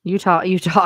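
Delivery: laughing while repeating Utah. Real, not acted. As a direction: laugh through the word Utah. Laughing at the joke.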